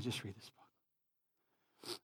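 low, soft and slow; subdued, low-pitched reflection; hushed repeat. Real, not acted. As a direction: drop it to a quiet, sober restatement.

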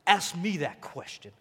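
lightly voiced Italian mob boss; half-hearted crime boss impression; The Godfather. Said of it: "Like The Godfather".

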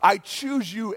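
rising mock scream of devotion; retold screaming. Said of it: "until I started screaming".

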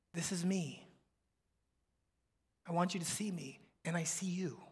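soft, unhurried reassurance; hushed and personal; tender intimacy. Acted. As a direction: speak quietly, face to face. Jesus voiced face to face, intimate.

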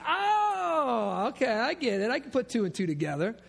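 hammed-up lightbulb moment; mock cry of sudden understanding; mock knowing realization. Mock realization, high wail.

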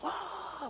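high, soft mock wail; brief imitation of wailing; demonstrated wail. Shown as a demonstration. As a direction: let out a small, high demonstration cry. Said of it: "bitter means to wail".

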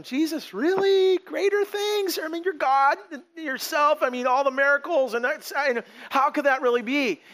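high, disbelieving questioning of Jesus; incredulous. Retold or imitated. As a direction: gasp out each question in disbelief. Listeners' incredulous reaction voiced.

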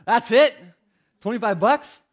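loud, high-pitched incredulity; indignant disbelief. Acted. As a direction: react as if insulted by a tiny gift. Acted reaction to a tiny gift.

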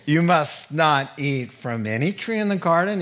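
lightly voiced sly serpent. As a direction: draw it out like a tempting snake.

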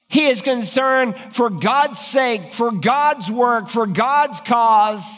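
slow, each "God's" leaned on; slow emphatic build. Real, not acted. Preacher pressing Elijah's concern for God, slow and weighty. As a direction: hammer the three phrases home slowly.

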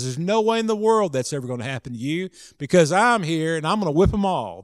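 lightly acted bravado, words tumbling out; brash protest. Peter vowing to protect Jesus, brash and quick.

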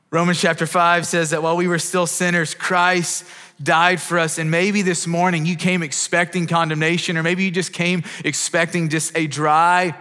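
sustained, earnest pulpit appeal; impassioned preaching. Real, not acted. Preacher urges the congregation to turn to God, impassioned preaching. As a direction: preach it with rising conviction and urgency.

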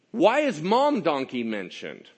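normal talking voice

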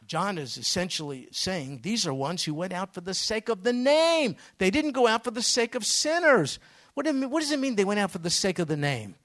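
loud, high, driving preacher voice; preaching at full force. Real, not acted. Preacher pressing the congregation on the meaning of the name, loud and high. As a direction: build it into a passionate shout.

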